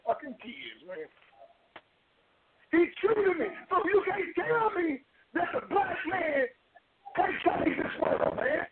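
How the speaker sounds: crying while he thanks his friend; emotional testimony, crying openly. Real, not acted. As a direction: voice breaking with real sobs. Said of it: "I'm in tears".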